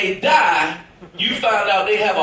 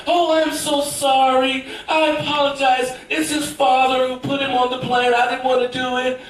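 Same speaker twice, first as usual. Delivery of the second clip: apologetic mother; 3 semitones higher than usual. Retold or imitated. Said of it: "she was like".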